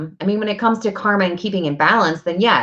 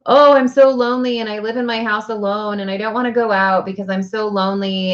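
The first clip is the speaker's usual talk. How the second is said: mock self-pity; 3 semitones higher than usual. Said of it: "be like".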